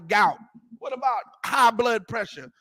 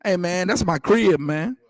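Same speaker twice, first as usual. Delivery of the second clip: lightly hammed-up Black vernacular, louder; casual Black vernacular with a touch of punch; 3 semitones lower, 5 dB louder than usual. Preacher showing how his own people talk, Black vernacular. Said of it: "just like black people talk".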